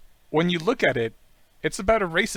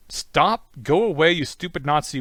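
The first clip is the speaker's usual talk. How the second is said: loud, pitched-up rebuff; mock angry dismissal; 3 semitones higher, 6 dB louder than usual. Forum poster rejecting a suspected troll, loud mock anger. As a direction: shoo them off loudly, play-acting.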